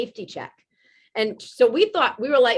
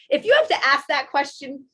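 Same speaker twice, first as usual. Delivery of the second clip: laughing retort; 3 semitones higher, 6 dB louder than usual. Retold or imitated.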